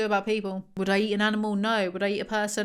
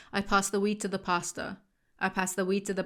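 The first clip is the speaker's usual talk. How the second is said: American accent; 4 dB quieter than usual. Shown as a demonstration. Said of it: "that don't count 'cause it's an American accent".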